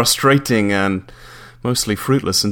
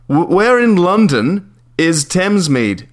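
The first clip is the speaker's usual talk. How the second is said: slow, higher, leaning on "where"; slow, exasperated repeat; 8 semitones higher, 5 dB louder, slower than usual. Acted. Caller pressing the landlady, slow and exasperated. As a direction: drag out "Where" patiently.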